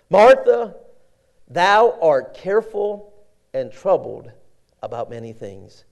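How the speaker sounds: Jesus calling Martha then softening; firm then fading. Acted. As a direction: call her, then let it fall gently.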